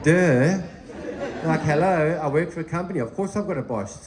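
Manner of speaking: mock disbelief at a silly question; incredulous retort. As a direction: act out stating the blindingly obvious. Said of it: "looks at me quite strange and goes".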